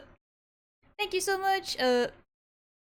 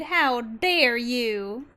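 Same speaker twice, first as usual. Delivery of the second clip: 1 mock indignation; 3 dB louder, much slower than usual. Mock outrage at raider.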